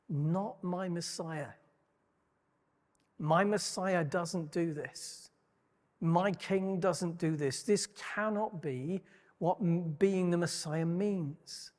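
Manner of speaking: slow, deliberate, each phrase set down hard; a mildly voiced Peter, slowly insisting; slow indignant refusal. Preacher voicing Peter's refusal.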